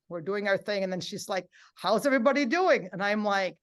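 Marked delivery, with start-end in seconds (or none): 1.8-2.9 instructor calling out. Retold or imitated. Instructor voiced calling to class.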